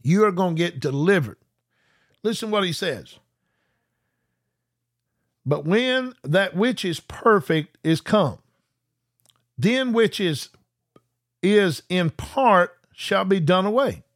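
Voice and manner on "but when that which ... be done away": deliberate, measured reading; slow scripture reading. Acted. Preacher reading Corinthians to viewers, slow and measured. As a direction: let each phrase land slowly.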